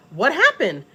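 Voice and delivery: high-pitched, urgent question; alarmed, voice lifted; retold alarm. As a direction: re-enact a mother demanding answers. Demands to know what happened.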